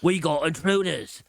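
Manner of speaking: loud alarmed goblin cry; goblin alarm shout. Acted.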